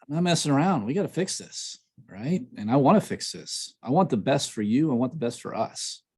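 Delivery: mean it, and make her feel included; earnest and firm. Retold or imitated. Husband telling his wife he wants to fix things, earnest and caring. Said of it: "It sets that tone".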